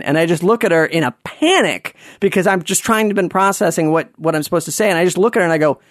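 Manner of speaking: ordinary talk, nothing marked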